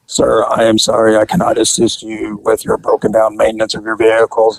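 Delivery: flat, robotic officer reading the rules; monotone robot voice. Retold or imitated. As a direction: recite it like a robot, no feeling. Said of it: "in his monotone robot voice".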